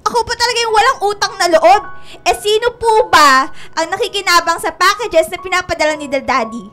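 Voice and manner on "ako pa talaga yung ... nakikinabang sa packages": louder tearful protest; crying indignation. Acted. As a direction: protest through tears. (umiiyak na pagtutol)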